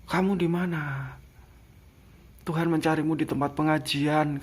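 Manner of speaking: a hint of a scolding angel; lightly voiced angel. Angel preaching God's search. (suara malaikat yang menegur, sedikit tinggi)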